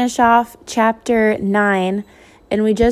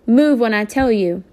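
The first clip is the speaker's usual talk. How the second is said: impatient hiss; 2 semitones higher than usual. Acted. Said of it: "Mama hissed impatiently".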